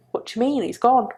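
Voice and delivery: breathless disbelieving whisper, barely voiced; stunned whisper. Mother on the phone to ex-husband, stunned whisper. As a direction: whisper it as if the news can't be real. Hearing of son's death by phone.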